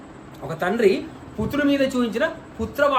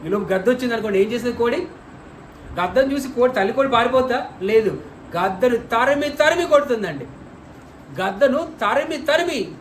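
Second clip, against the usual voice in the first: preacher acting out the fierce mother hen; animated storytelling; 3 semitones higher than usual. Real, not acted. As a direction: paint the chase with energy. Vivid hen-and-hawk illustration.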